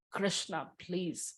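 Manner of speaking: soft, slow, pleading prayer; pleading call. Retold or imitated. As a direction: call out like a child to his mother. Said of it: "like a child calls out to, you know, for his mother".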